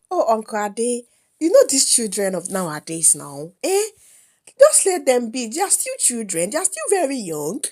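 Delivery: lightly voiced pleading mother; a touch of coaxing, rising appeal; placating mother. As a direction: gently talk an offended relative down. Mother placates the offended uncle.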